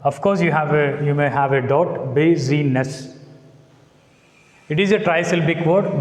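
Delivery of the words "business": busyness slowly broken into BU-sy-ness; syllable-by-syllable stress. Shown as a demonstration. Teacher answering a doubt about a three-syllable noun, busyness in slow separate syllables. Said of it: "stress mark on the first syllables".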